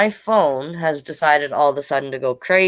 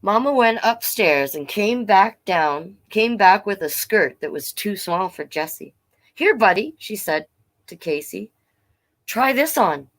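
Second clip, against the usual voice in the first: story narration; 3 semitones higher than usual. A narrator's reading. Reads picture book aloud.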